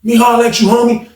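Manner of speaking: lightly voiced insistent inmate; number two dude. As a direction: press him to talk now. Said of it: "the number two dude like".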